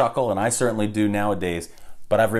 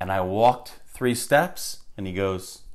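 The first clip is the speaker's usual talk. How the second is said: plain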